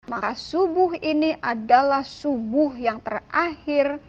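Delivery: retold exasperated challenge to God, firm and emphatic; annoyed. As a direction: press each condition, mildly cross. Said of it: "dengan kesel nih, saya kesel banget".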